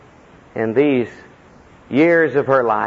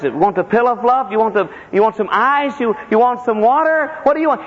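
son coaxing through a list; 10 semitones higher than usual. Retold or imitated. Brother lists things to mother.

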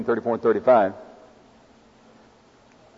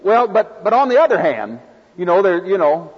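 hedging believer; 4 semitones higher than usual. Retold or imitated. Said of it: "and we say".

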